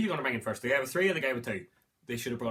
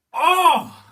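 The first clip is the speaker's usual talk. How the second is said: slow, very high and loud oh of wonder; amazed oh; 19 dB louder than usual. Real, not acted. Reviewer amazed the villains meet, loud high drawn-out oh. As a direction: stretch out a thrilled oh. Villains talking across universes.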